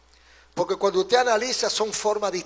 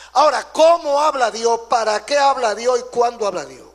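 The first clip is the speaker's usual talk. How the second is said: emphatic questioning; 3 semitones higher, 6 dB louder than usual. Real, not acted. Preacher launches his rhetorical questions.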